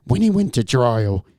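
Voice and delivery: measured, low-key story narration; story reading. A narrator's reading. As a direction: read the creepy tale straight, with pauses. Resumes reading the story aloud.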